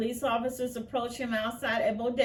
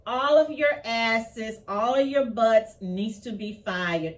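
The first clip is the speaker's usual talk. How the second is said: angry demand; 6 dB louder than usual. Real, not acted. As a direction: hammer it home at the cops. Angry demand to fire officers.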